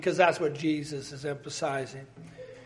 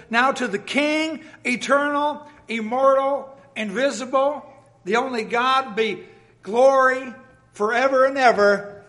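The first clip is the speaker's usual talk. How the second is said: building praise; 4 semitones higher, 4 dB louder than usual. Acted. Preacher reading Paul's praise to the congregation, building exultation. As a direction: lift each title higher until it bursts.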